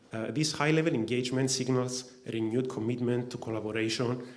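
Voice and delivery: winded from running, short breaths. Real, not acted. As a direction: speak while catching your breath. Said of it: "I'm a bit out of breath".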